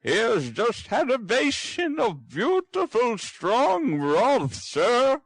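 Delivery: broth hit loud and firm, line slow and high; stress on broth. Acted. Housekeeper corrects her master, stressing broth. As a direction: correct him by leaning on broth. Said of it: "laying strong emphasis on the last word".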